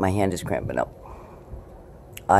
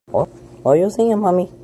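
talking to the cat; 10 semitones higher, 7 dB louder, faster than usual. Real, not acted.

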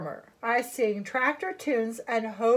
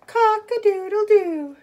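high, loud crowing; raised-pitch cock-a-doodle-doo; rooster crow; 6 semitones higher, 7 dB louder than usual. Acted. Rooster character crows in story.

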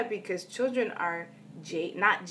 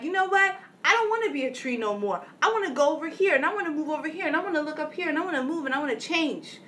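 restless whining tree; 8 semitones higher, much faster than usual. Pretend. Tree voiced as restless, wanting to move.

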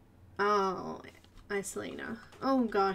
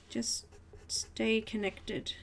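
gentle plea; 5 dB quieter, slower than usual. Real, not acted. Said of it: "you know, guys".

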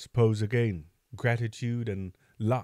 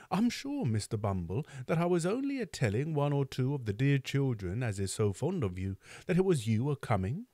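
higher, meek and apologetic; humble Mrs Mann; 4 semitones higher than usual. Acted. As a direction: plead your innocence to the beadle. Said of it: "with great humility".

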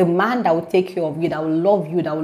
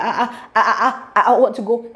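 imitating a stutter; 3 semitones higher than usual. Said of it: "I was stuttering heavy".

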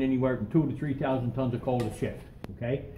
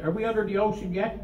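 higher-pitched imitation of a tourist calling up; mock holler; 6 semitones higher than usual. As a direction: call out a question in a raised pitch, no real shout. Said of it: "this woman hollered up".

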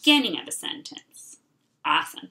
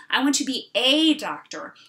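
the word a given clear weight; stress on a; 4 dB louder than usual. Shown as a demonstration. Teacher showing the right sentence: stressing a. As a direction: lean on a before doctor. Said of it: "I'm gonna say".

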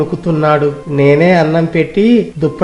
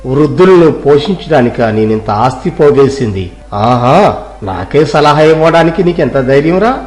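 furious landlord; 2 semitones lower than usual. Acted. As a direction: tear into the cloth seller with contempt. Landlord berates the seller. (కోపంగా తిట్టే పెదకాపు)

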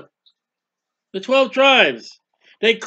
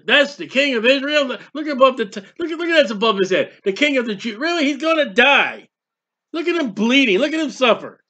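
jeering onlooker; 4 semitones higher, faster than usual. Acted. Crowd jeering at cross.

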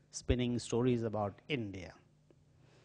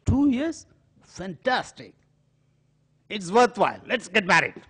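high, loud, delighted aunt; delighted surprise; 8 semitones higher, 7 dB louder than usual. Retold or imitated. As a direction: leap up in joyful disbelief. Aunt delighted by boy's answer.

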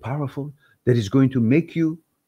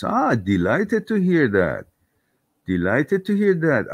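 Irish lilt; 4 semitones higher than usual. Pretend. Thanking a viewer for good news, lightly Irish. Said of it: "I constantly go Irish".

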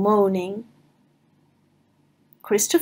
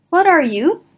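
Pooh voice; 7 semitones higher, 4 dB louder than usual. Acted. Pooh asks Owl.

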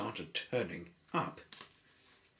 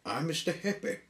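1 cheerful introduction; 7 semitones higher, faster than usual. Acted. Cheerful hero introduces himself.

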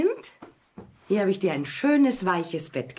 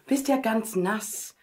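tender pity; slower than usual. Acted. Queen pities wet princess.

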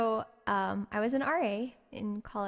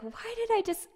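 laughing at herself; 13 semitones higher than usual. Retold or imitated. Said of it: "I just started laughing at myself".

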